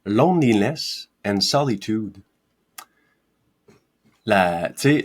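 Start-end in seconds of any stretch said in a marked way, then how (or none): 0.0-2.2 slow English "Loneliness and solitude"; English words. Shown as a demonstration. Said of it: "il fait la différence entre deux mots en anglais".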